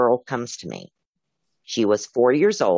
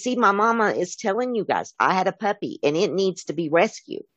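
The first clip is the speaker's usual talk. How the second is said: put-on higher, child-like pleading voice; a girl's ghost urging the dispatchers, a touch higher; little girl; 7 semitones higher than usual. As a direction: lightly voice a small girl insisting to the grown-ups. Dead girl voiced in story.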